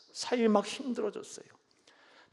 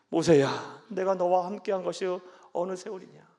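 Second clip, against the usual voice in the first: rebuking God; 7 dB louder than usual. Pretend. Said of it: "이런 소리 안 하신다니까요".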